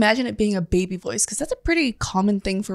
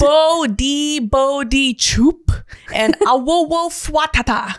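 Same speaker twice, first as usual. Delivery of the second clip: put-on baby noises; 2 semitones higher, much slower than usual. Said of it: "It's called".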